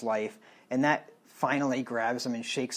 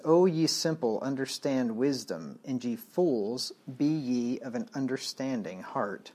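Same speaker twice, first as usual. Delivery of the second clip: a raised, slowed cry of wisdom to the simple; emphatic scripture reading. Acted. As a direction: read it as wisdom calling out with feeling.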